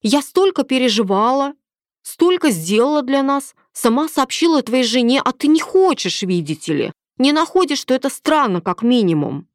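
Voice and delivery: a touch of offended woman; lightly voiced indignant mistress. A narrator's reading. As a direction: pile up her grievances. Milena's indignant complaint.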